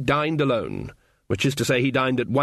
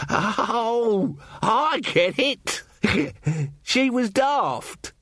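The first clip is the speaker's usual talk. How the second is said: slow dawning laugh; 11 semitones higher, much slower than usual. Acted. Carter slowly gets the joke.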